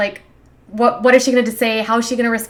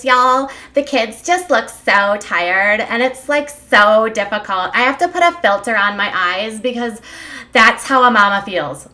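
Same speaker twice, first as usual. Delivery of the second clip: loose Leah impression. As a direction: lightly mimic a whiny-post social media mama, drawing out key words. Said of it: "I didn't do it in my best Leah".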